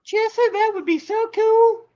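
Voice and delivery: high, slow mock Southern accent; hammed-up Southern drawl on the greeting. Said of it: "I gotta read that with a Southern accent".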